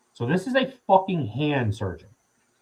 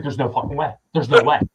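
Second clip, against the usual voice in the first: imitating flat-out disbelief, louder on the repeat; mock incredulous protest, building; retold disbelief; 4 dB louder than usual. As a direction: act out a doctor refusing to buy it. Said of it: "he could not believe".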